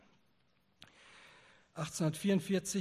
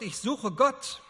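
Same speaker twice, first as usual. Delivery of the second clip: louder and slower, dragging out Gott; desperate cry; 7 semitones higher, 7 dB louder, slower than usual. A narrator's reading. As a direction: cry it out as if searching everywhere. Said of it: "unaufhörlich schrie". (verzweifelt und laut, langsam gerufen)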